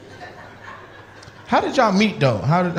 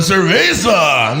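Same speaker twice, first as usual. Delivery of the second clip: mock call; 5 dB louder, much slower than usual. Acted morning drinker shout.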